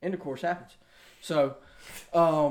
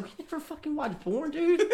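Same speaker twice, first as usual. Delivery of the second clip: laughing retort; 11 semitones higher, 4 dB quieter than usual. Retold or imitated.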